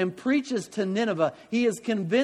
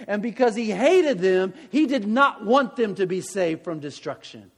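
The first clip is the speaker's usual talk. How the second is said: preaching build; 3 semitones higher, 4 dB louder than usual. Real, not acted. Climax of sermon point.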